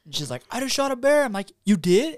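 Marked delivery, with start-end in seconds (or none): 0.5-1.2 high, loud imitation of a thrilled caller; retold excitement. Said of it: "I'm, like, freaking out". 1.6-2.2 high, loud, thrilled question; freaking out. Retold or imitated. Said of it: "I'm, like, freaking out".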